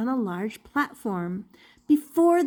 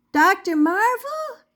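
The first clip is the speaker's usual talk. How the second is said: higher, louder shout for attention; 10 semitones higher, 5 dB louder than usual. Acted. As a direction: shout his name across the noisy studio. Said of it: "she shouted".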